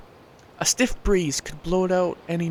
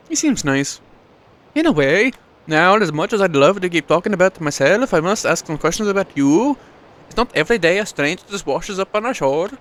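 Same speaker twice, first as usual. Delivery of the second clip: lightly higher village woman; a hint of a curious townswoman; voicing Frida; 4 semitones higher, 4 dB louder than usual. Frida questioning the stranger, lightly voiced woman.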